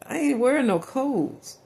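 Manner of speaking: high, slow pitiful whine. Retold or imitated. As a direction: stretch it out like a sulky kid. Pleading while thrown out.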